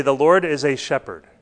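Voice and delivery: "a" said as a full long "ay"; stress on A. Shown as a demonstration. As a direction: lean on the article "a". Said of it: "note that David doesn't say".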